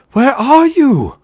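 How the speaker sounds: very high, loud, slow shout; drawn-out desperate bellow; angry, frightened cry. A narrator's reading. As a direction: yell with anger and fear mixed. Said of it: "both angry and afraid".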